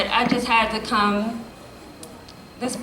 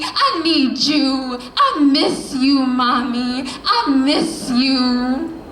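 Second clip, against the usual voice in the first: spoken word poem; 2 semitones higher than usual. Acted. Poet addressing her late mother, in a rising spoken word recital. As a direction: slam poetry delivery, rhythmic and building.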